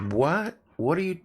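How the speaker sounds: incredulous what. Retold or imitated. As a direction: play the coworkers, jumping high in shock. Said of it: "the people around it will be like".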